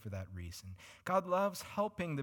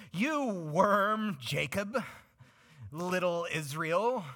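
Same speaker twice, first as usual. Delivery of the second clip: loud, scornful higher voice calling Israel a worm; harsh, contemptuous God; 5 semitones higher, 6 dB louder, much slower than usual. Acted. God belittling his people in a harsh scornful tone. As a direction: sneer it out with contempt. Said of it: "I don't think he said it quite in that tone of voice".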